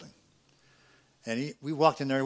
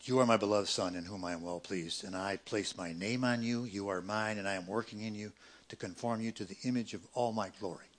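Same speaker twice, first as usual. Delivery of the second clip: gentle; 3 semitones lower, 3 dB quieter than usual. Acted. God's words said gently.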